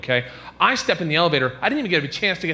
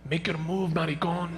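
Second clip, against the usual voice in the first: retold whisper; 7 dB quieter than usual. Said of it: "he whispers to me".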